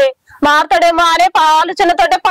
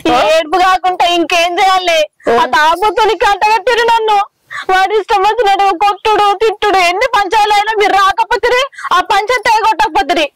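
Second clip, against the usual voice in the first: tearful complaint; 4 semitones higher than usual. Acted. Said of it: "ఏందో ఏడుస్తున్నావు ఏందే?".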